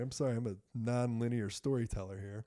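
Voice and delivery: usual speaking voice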